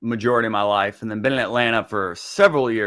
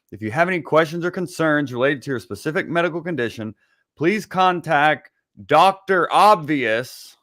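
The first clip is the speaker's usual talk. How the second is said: disclaimer read; 2 semitones higher than usual. Acted. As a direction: read it like a legal fine-print announcer with a comic punchline. Reads medical disclaimer as a bit.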